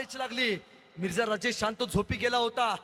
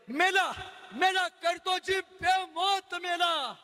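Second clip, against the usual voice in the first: gloating jeer; 7 semitones higher, slower than usual. Acted. Onlookers jeer at doomed prisoner.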